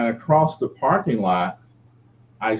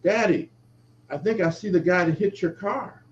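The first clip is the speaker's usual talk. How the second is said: daughter's voice; 7 semitones higher than usual. Retold or imitated. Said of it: "my daughter says".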